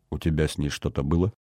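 low, softened question; undertone. A narrator's reading. Rita asks about him and Natasha, in an undertone. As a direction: ask under your breath. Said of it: "сказала вполголоса".

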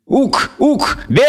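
high shouted goat bleat. Acted. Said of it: "заблеял козёл".

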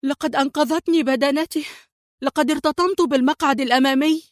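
high, shaken exclamation; pale exclamation. A narrator's reading. Qadri to his friends after the crash, a high shaken cry. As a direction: blurt it out, still pale from the crash. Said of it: "هتف قدري الذي شحب وجهه".

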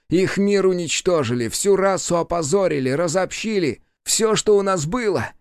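high, rising demon cry; a climbing near-shout of loss; almost shouting. A narrator's reading. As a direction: push toward a scream, not quite there. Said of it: "почти закричал он".

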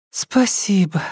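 sincere whispered thanks; relieved whisper. A narrator's reading. Alka thanks her captor in the dark, whispered with relief. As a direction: breathe it out with relief. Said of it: "с искренним облегчением сказала Алька".

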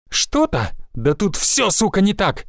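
a woman yelling over a ruined mission; angry yell. A narrator's reading. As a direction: snap back in rage. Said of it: "заорала Ферзь".

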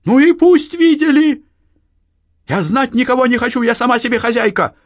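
loud, high and fast defiance; defiant anger. A narrator's reading. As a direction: fling it at her mother. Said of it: "вскипела Анна". (Анна дерзко кричит матери)

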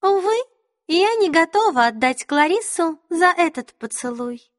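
high, playful fake regret; mock sigh. A narrator's reading. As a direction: sigh theatrically, clearly pretending. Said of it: "притворно вздохнула королева".

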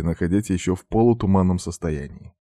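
ordinary delivery, nothing marked

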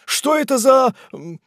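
high, loud, broken-off question; alarmed question. Acted. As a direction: start asking in alarm, then break off. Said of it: "вскричал мистер Пиквик, с беспокойством".

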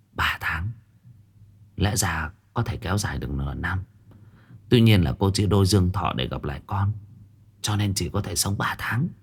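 a hint of a grave old seer delivering bad news quietly; old fortune-teller, hushed. Old woman tells remaining lifespan.

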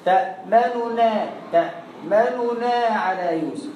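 تأمننا with the first damma clipped short; slow chant, the damma in تأمننا cut short; quick damma. Shown as a demonstration. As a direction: recite تأمننا slowly but snatch the damma. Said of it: "ما تاخدش راحتك في الحركة".

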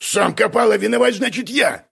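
indignant. A narrator's reading. Гнусис blamed for another's digging, indignant. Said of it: "возмутился Гнусис".

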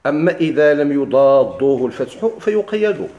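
loud, measured recitation; verse recitation. Acted. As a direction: recite the line out to the class. Recites the text being taught.

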